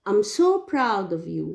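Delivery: "so proud" lifted, then gliding down on "of you"; an example exclamation, leaning on "so proud"; exclamation intonation. Shown as a demonstration. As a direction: punch "so proud", ease off "of you". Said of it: "can be raised the intonation".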